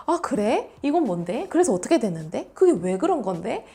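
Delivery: lively, curious questions, cheerfully pushed; mildly hammed-up bubbly interest; bright forced reaction. Shown as a demonstration. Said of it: "억지로 좀 발랄하게 끌어올려야".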